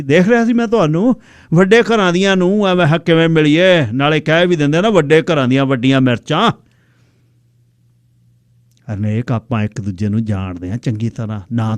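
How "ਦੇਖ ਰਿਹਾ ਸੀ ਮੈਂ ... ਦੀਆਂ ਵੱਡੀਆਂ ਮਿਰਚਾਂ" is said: teasing. Acted. He teases the rich woman.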